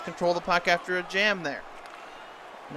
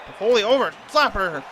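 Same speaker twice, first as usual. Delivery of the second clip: rising shout on the shot; excited call; 3 semitones higher, 5 dB louder than usual. Real, not acted. Shot on goal in play-by-play.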